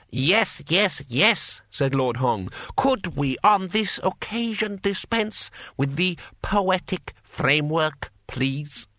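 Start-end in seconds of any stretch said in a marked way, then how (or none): 0.1-1.6 higher, impatient interruption; impatient lord. A narrator's reading. Lord cuts the poem short. 2.8-8.9 higher, slow, strained politeness; exasperated lord. A narrator's reading. Lord asks to skip poetry.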